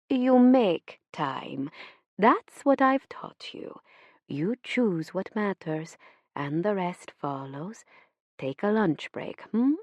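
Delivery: slow, firm motherly insistence; lightly voiced mother pressing her point; mother pressing her daughter to make time, slow and firm. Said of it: "she presses".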